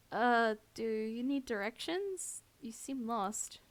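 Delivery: hesitant, slow-starting, mildly nervous question; understated unease, trying to sound helpful; nervous tremor. Acted. Cornered woman to the man blocking her, mild nervous tremor. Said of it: "can't keep the tremor out".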